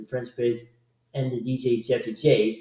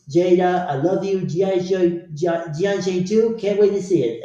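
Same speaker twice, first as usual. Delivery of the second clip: quoting a joke; 5 semitones higher than usual. Retold or imitated.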